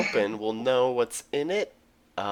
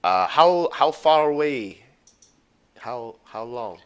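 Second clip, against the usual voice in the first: put-on Russian accent; 5 dB louder than usual. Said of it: "best Russian voice".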